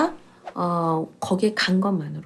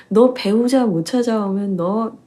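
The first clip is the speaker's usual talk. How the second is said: mock scary threat; 2 semitones higher than usual. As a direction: pretend to bully the servant, half in jest. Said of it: "이렇게 막 무섭게 막 다그쳤나". (장난스럽게 살짝 무섭게 다그치며)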